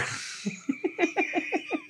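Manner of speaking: airy high giggle fit; breathy giggle. Real, not acted. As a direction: giggle under the breath at the clip. Laughing at Goofy clip.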